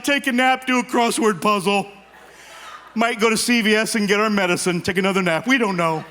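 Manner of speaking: lightly voiced bored old couple; hint of bored retirees. Voicing bored empty nesters.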